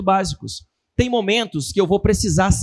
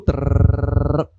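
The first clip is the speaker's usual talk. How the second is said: droning trill; 6 semitones lower than usual. Retold or imitated. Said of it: "Ele falou trinta e cinco minutos assim".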